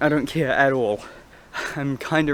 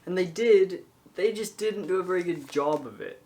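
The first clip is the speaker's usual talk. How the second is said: echoing in a stairwell; echoey stairwell; 9 dB quieter than usual. Real, not acted. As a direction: talk in a bare stairwell with echo. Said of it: "sorry about the echoey stairwell".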